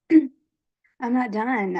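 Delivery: hushed, breathless plea to God, drawn out slowly; pleading whisper. Retold or imitated. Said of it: "I pleaded".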